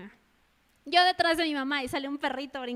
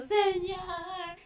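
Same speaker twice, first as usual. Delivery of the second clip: drawn-out, higher wail; mock crying; 4 semitones higher than usual. Believer comes crying to the Lord, mock tearful wail. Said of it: "a veces así venimos llorando".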